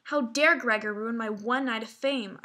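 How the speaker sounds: mildly indignant outburst; a touch of acted outrage; furious. Sister fuming at Gregor for ruining her night, understated fury. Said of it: "I stood at my stand furious".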